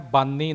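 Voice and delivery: ਬਾਨੀ with a dental ਨ; flat dental n in ਬਾਨੀ; plain n, wrong way. Shown as a demonstration. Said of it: "ਨਹੀਂ ਬੋਲਣਾ".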